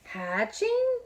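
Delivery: very high, loud disbelief; very high shocked question; shocked Elephant. Acted. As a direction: squeak it out in alarm.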